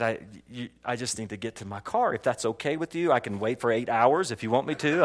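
soft, low, stammering politeness; meek pleading. Retold or imitated. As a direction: play it cowed before the bikers. Meek request to intimidating bikers.

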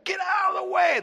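high, loud mock shout; retold shout. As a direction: yell it like panicked strangers. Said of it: "people are screaming at them".

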